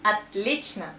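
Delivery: "Отлично" as at-LEECH-na; unstressed O's in "Отлично" reduced to A. Shown as a demonstration. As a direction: say "Отлично" starting on A, stress in the middle. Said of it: "we pronounce A because of stress".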